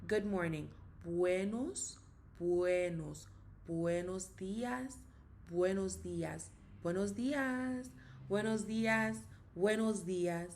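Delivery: buenos días with the lips working hard on each sound; over-articulated. Shown as a demonstration. Teacher drilling a Spanish greeting, lips exaggerated. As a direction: shape every syllable of buenos días broadly. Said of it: "make sure you over, use your lips".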